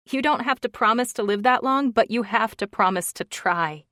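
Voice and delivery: lightly voiced young woman begging; pleading woman's voice. She pleads with him.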